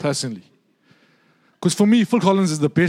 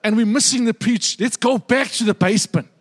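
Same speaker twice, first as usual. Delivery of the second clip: put-on old lady voice; 5 semitones higher than usual. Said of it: "She now says".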